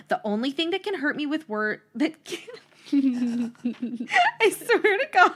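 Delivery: words breaking up into high laughter; cracking up while reading the line; laughing through it. Real, not acted. Reading her own teen note aloud, dissolving into laughter.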